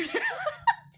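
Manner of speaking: a loud, very high laugh; high squeal of laughter. Real, not acted. Vlogger cracking up at the name Timmy Turner, high laugh.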